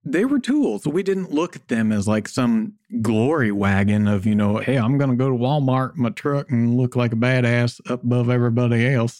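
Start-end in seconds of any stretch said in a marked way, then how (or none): 4.6-9.2 lightly voiced Southern accent. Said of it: "that's my Southern accent there".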